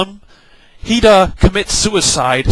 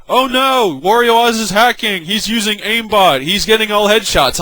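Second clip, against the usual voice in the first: higher, whiny mock panic; mocking accusers; 3 semitones higher than usual. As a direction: imitate the whining players, lightly. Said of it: "they're like".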